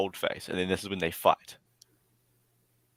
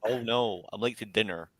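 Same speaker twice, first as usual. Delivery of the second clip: put-on American accent; 3 dB quieter than usual. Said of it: "American accent".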